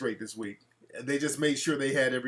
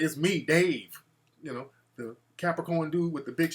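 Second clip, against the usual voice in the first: mock lovey-dovey. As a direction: drag it out like an old flame calling. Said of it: "sound like we had a one night stand".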